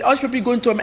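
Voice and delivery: a light imitated Arab accent, cut off. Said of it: "I'm speaking with his Arab accent".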